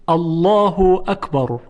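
"الله اکبر" with a heavy, dark l in "الله"; full, rounded lam in "الله اکبر"; thick lam. Shown as a demonstration. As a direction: recite "الله اکبر" as "Allawhu akbar".

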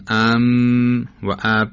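ام hummed through the nose, اب stopped hard at the lips; contrasting letter sounds. Shown as a demonstration. Teacher has students test both lip sounds, ام hummed and اب popped. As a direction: slowly contrast the held m in ام with the popped b in اب. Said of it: "مخرج اینها یکیست اما صداشون متفاوته".

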